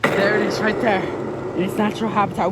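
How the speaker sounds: like a nature-show presenter spotting wildlife; nature documentary. Pretend. Nature host spots an animal.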